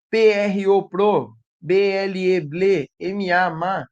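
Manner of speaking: slow, measured letter-by-letter recital; spelling everything out. Acted. Teacher imitating a child tangled in complex syllables, slow spelling out. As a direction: spell each syllable laboriously, then join it. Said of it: "ela vai soletrar tudo".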